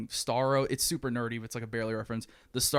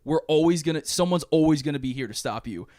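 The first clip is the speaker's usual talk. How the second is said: heroic speech; 2 semitones higher than usual. Retold or imitated. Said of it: "He's like".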